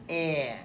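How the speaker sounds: "eh" as a short whiny vowel; "eh" like a mild whine. Shown as a demonstration. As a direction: whine a quick "eh". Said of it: "It sounds kinda whiny".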